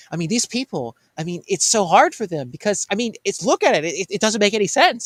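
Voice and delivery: imitating an exasperated teacher's comic rant; funny rant. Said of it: "he would do this little rant, funny rant".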